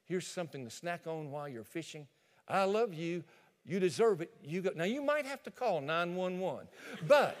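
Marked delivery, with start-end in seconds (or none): 0.0-4.7 sweet wife. Acted. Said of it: "walk up to the pickup truck and say".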